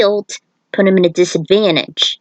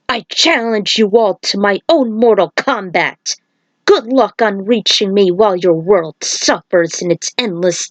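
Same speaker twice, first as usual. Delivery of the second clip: booming villain voice. Acted. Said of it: "heard a booming voice in the air".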